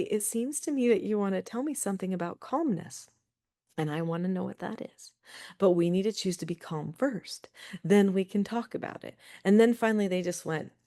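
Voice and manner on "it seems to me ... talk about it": calm. Retold or imitated. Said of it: "So then I say".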